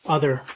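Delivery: "Other" with a clear, open first vowel; demonstrated vowel. Shown as a demonstration. Teacher modelling the vowel in "Other". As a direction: model the word "Other" slowly for the class. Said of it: "at the beginning of other".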